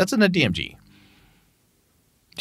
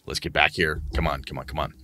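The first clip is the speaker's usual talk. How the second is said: coaxing game master; 5 semitones lower than usual. Acted. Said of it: "shake 'em a little bit and say".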